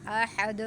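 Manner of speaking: آحد with a bounced, echoing final د; qalqalah. Shown as a demonstration. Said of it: "قلقلہ بھی اس پر ہوگا". (آحد پر قلقلہ)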